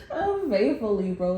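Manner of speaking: words said through laughter; laughing. Real, not acted. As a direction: let the laugh carry the word. Laughing as speaks.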